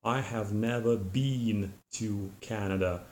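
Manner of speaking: "been" said as "bean" with a long E; British speaker says been; British pronunciation. Shown as a demonstration. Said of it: "a person from Great Britain would".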